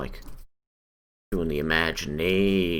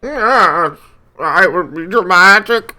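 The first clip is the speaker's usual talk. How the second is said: much higher, much louder grand declaration; dramatic voice; 13 semitones higher, 15 dB louder, slower than usual. Pretend. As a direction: ham it up like a movie trailer. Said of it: "I will read it in my most dramatic voice".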